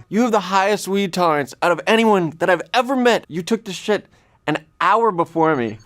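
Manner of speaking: losing it at the roommate in mock horror; panicked disbelief.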